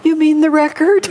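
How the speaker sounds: high, hesitant little question, laughing at herself; tentative. Retold or imitated. Retelling a timid question to Swamiji. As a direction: ask it meekly, afraid of the wrong answer. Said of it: "very tentatively".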